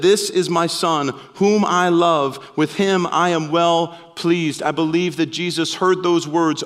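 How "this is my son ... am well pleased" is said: slow and loving, leaning on "whom"; slow tender voice of the Father. Acted. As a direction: bless a beloved son slowly. Voice from heaven read aloud.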